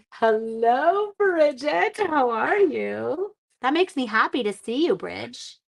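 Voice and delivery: high, slow, delighted hello; light up to greet a friend. Real, not acted. Greeting a viewer who just joined, delighted and high.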